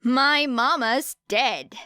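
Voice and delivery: slow, fake-bright chirp over a sad fact; faux cheer. Girl mocks the man's mama jab, faux cheerful. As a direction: sing it out with hollow cheer. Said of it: "said Era with faux cheer".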